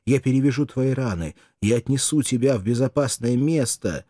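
a touch of eager, broken babble; hurried loving promises; breathless babbling. Acted. Mirdza babbles over her wounded lover, mildly eager. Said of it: "отрывисто быстро лепетала".

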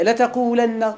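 لتقولن said slowly as letaqulanna; لتقولن, singular form, carefully spelled out; form with a before the nun. Shown as a demonstration. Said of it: "يلا قولوا معي".

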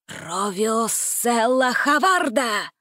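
slow, drawn-out incantation; old wizard casting a spell. A narrator's reading. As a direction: chant the magic words slowly. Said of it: "произнёс старец заклинание".

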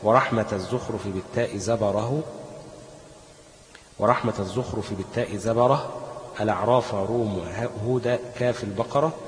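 slow, metrical recital of a memorised poem; didactic verse recitation. Shown as a demonstration. Teacher quotes the Jazariyya as proof, slow verse recitation. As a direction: recite the verse in measured rhythm.

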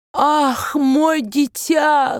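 put-on high, very slow accented outcry; anguished cry. A narrator's reading. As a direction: cry out to her in dismay. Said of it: "вскричал он". (высокий медленный вскрик с акцентом)

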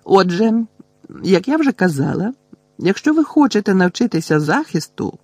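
high-pitched, thin little voice; small high voice laying out the business; tiny thin voice. A narrator's reading. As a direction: pipe up primly in a tiny voice. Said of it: "заговорила тонесеньким голоском Герміона".

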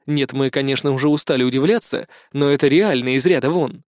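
ordinary delivery

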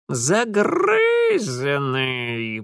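very slow creaky spirit voice; creaking creature. A narrator's reading. Mara creaks a strange word at Mitya, very slow. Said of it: "проскрипела Мара".

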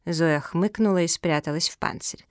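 plain reading voice

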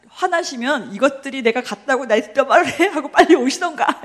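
loud, joking indignation with a laugh; hammed-up huff; mock anger. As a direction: play at being riled up, half laughing. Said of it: "열받아서".

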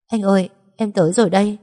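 put-on she begs her dead boyfriend to wake; crying. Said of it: "Tôi khóc đến nấc lên". (vừa khóc vừa gọi)

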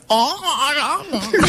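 high, drawn-out sing-song; mock a salon socialite, stretching the words high; sing-song salon girl. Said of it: "it's sing-songy".

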